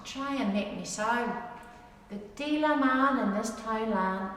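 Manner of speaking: measured dialect poem reading, rhythmic; poem recitation. Acted. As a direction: recite it like a fireside rhyme. Reads a dialect poem aloud.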